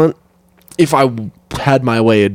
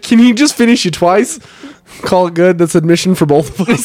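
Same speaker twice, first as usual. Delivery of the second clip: put-on higher-pitched pitch in a Boston accent; 4 semitones higher than usual. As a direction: haggle like a Bostonian. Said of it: "You said it with a Boston accent".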